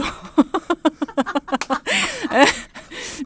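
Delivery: high burst of real laughter; helpless laughter. Real, not acted. Host cracking up at the expert's acting, helpless laughter. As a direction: crack up completely.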